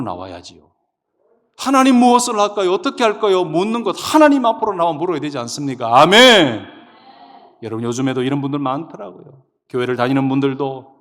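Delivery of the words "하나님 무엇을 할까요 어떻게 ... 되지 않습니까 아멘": loud, raised pulpit exhortation; full-force preaching. Real, not acted. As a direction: press the congregation, ending on a ringing amen. Exhorts the congregation.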